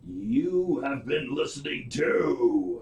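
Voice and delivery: slow, booming monster truck announcer. Acted. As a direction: draw it out like a monster truck rally ad. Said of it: "put my, my Monster Truck voice in".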